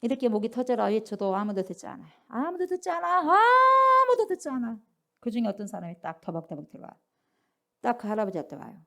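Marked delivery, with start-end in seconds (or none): 2.3-4.8 high, loud, slow lament; anguished emphasis. Real, not acted. Preacher laments that nobody listens, high and drawn out. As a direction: stretch it out in dismay. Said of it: "repeated for emphasis".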